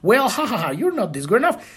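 snide little fake laugh, then a quick jab; mock them with a smirk; condescending chuckle, rushed; subtle mockery. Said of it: "they can do it in subtle ways".

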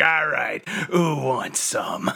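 drawn-out, hammed-up fighting challenge; mock challenge. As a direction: stretch it out like a hero spoiling for a fight. Acts Prime breaking out berserk.

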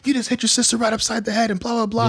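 high, mock-stern scolding father voice; stern dad. Dad mock-scolding son in story.

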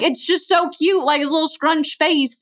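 high, slow gushing over a cute puppy. Retold or imitated. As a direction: swoon over its little face. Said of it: "And I'm like".

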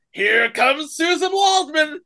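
high, slow shouted announcement; excited intro. Retold or imitated. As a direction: announce her like a showman. Introducing a host.

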